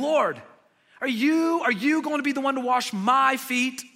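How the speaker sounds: astonished protest; incredulous Peter. Retold or imitated. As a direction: Peter can't believe his rabbi kneels. Peter protesting, voiced quote.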